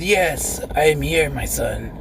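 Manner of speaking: low, whispered demon voice. Pretend. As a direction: breathe it out like a demon from below. Voicing a demon on Ouija.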